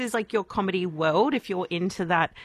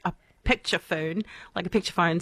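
lightly put-on New Zealand accent; a half-hearted Kiwi accent on picture phone; faster than usual. Shown as a demonstration. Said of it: "Sorry, my bad New Zealand accent".

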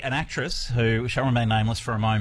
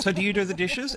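lightly voiced blunt old person, higher pitch; direct octogenarian; 8 semitones higher than usual. Imitating an octogenarian at lunch with a princess, direct. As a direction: pipe up with a blunt question. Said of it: "in the direct manner that only a".

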